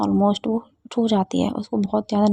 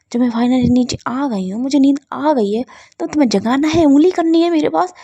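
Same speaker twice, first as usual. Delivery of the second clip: building scolding; 4 semitones higher, 4 dB louder than usual. Acted. Siya scolds Ruhi for waking her.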